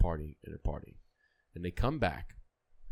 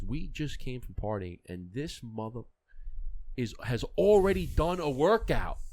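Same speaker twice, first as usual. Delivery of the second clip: amazed teammate; 8 semitones higher, 3 dB louder than usual. Retold or imitated. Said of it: "one of the guys says".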